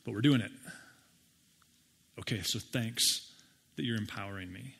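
a hint of tender surrender; quiet resolve. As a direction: gently accept it. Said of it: "And then he says".

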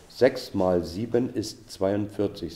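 slow, measured recital of the sum; slow practice take. Shown as a demonstration. Teacher drills a muddled sum, slow practice take. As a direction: say each word deliberately, as if memorising. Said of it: "wenn ich dann schnell kann".

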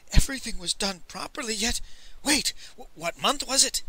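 high, hesitant questioning; fret, then halt on a sudden doubt; mildly distressed, stumbling merchant; whimpering. A narrator's reading. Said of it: "the merchant whimpered".

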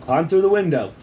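high, loud call; urgent storyteller's shout; shouting over noise. A narrator's reading. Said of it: "shouted Sid over t".

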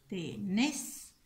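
"tenés" split, nés held; stressed syllable. Shown as a demonstration. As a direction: draw out the final nés of "tenés". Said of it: "La sílaba acentuada la encierro".

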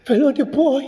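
name caught in a sob; choked, half laugh half cry; real tears. Real, not acted. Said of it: "That is why I'm crying".

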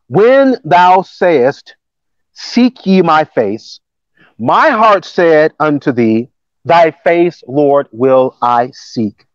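slow, measured Bible reading; scripture reading. Acted. Preacher reading the psalm to the congregation, measured scripture reading. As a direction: read the verse out deliberately.

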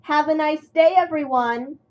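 bright high cheerful call, loud and rising; chirpy. A narrator's reading. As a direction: chirp it out to the whole yard. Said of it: "chirped James".

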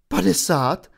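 put-on a boy blurting out in shock; Harry yelping in shock at losing fifty points. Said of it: "Vyjekl Harry".

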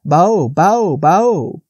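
high, loud bleating call; deer bleat. A narrator's reading. Frightened Faline bleating at the huge stag. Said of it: "I have to bleat".

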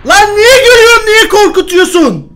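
very high, very loud frightened yell, near crying; screaming and half sobbing from a jump scare; panicked screaming. Real, not acted. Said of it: "boğazım kötü oldu bağırırken".

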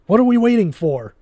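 high, loud panicked shriek; frantic shrieking scientist; hysterical scream. A narrator's reading. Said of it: "Quan screamed, almost hysterical".

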